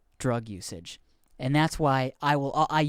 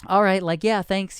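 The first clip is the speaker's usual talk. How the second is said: awkward thanks; 6 semitones higher, 6 dB louder than usual. Retold or imitated. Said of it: "And I was like".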